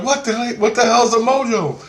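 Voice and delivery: high, incredulous mock demand; re-enacted confused outburst; retold bewilderment. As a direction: ask it high-pitched, utterly baffled. Retelling his bewildered demand in dream.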